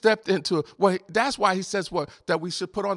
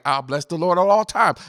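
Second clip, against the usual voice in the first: loud defiant declaration; 7 dB louder than usual. Real, not acted. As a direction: belt it out, louder. Preacher declaring defiantly to congregation.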